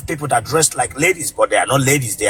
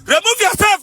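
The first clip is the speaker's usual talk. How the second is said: high, sharp yelled command; ordering out. Retold or imitated. Host ordering the guest off his live stream, yelling. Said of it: "I said".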